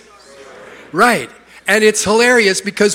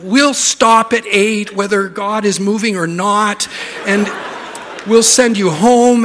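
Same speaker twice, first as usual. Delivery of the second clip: exaggerated apology; 3 semitones higher than usual. Pastor promising an early finish, exaggerated apologetic reassurance. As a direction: overdo the reassurance to reluctant attendees. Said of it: "that's the exaggeration".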